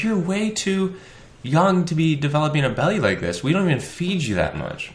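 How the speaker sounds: put-on high baby-talk voice to the cat. Owner scolding the cat, high baby talk. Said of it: "I'm like".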